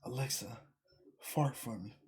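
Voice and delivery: hushed, low mock whisper to Alexa; imitated whisper. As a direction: imitate someone secretly whispering a command. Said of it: "a dude was whispering to his Alexa".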